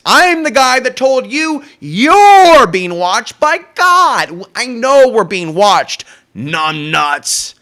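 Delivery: slow loud rant. Real, not acted. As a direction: drag every word out, booming at viewers. Ranting at viewers about being watched.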